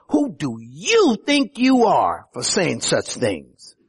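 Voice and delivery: a touch of scorn, slow, leaning on you; scornful. Retold or imitated. Leaders scornfully asking Jesus who he is, slow mild scorn. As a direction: sneer lightly at the upstart. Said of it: "it is said scornfully".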